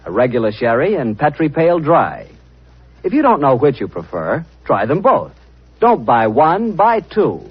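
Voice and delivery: smooth sponsor pitch; ad read. Acted. Announcer pitching wine to radio audience, persuasive. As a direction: sell the sherry warmly to listeners.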